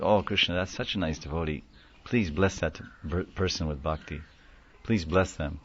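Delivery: a hushed, gentle plea to Krishna; soft prayer. Pretend. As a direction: murmur the blessing softly, almost to yourself. Devotee's quiet prayer acted out.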